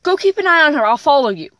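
put-on mother telling her son to go find the girl, urgent; mom's urgent order. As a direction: send the kid off quickly. Mother voiced giving orders.

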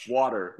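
"water" with an open ah, WAH-der; Canadian "water". Shown as a demonstration. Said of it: "Up here, it's water".

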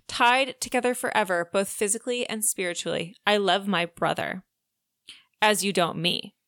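measured storybook narration; lightly dramatised audiobook read; reading aloud. Acted. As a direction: read the romance passage aloud, evenly paced. Reads a romance passage aloud.

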